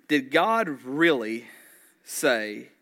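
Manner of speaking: slow, loud weight on "God really", then a pause before "say"; questioning. Acted. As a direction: draw out "really" to cast doubt. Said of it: "He just questioned".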